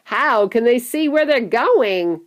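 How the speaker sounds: loud, high, slow cry; shrieked question. A narrator's reading. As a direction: call out a shrill question in the dark. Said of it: "shrieked Violet Beauregard".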